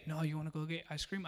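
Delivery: hushed tempting offer; mock whisper. Dad tempting son with ice cream, soft hushed offer. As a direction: tempt him softly. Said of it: "I even whisper".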